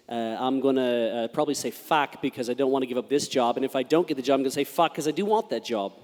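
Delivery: Australian accent starting out English; put-on Australian accent. Shown as a demonstration. Panelist trundling through a test sentence in Australian accent. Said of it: "It always starts English with me".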